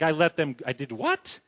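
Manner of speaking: groggy then rising high in mock panic; a lightly voiced Pharaoh waking up to his mistake; hungover Pharaoh. Pharaoh realizing he freed his labor, mock panicked high voice. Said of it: "He was like".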